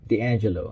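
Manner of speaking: "D'Angelo" with a soft j sound after the n. Shown as a demonstration. Reviewer settling on the name, "D'Angelo" with soft g. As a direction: say "D'Angelo" as dee-AN-juh-lo. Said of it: "I'm gonna go with D'Angelo".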